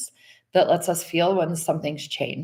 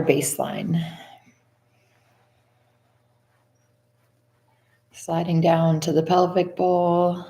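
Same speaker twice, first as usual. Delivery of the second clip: slow body-scan guidance with long pauses; guided meditation. Acted. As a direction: lead them unhurriedly through the body, phrase by phrase.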